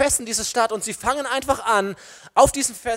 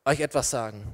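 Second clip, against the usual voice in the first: standing up boldly; 4 semitones lower than usual. Acted. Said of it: "Zu einem Petrus, der hinsteht".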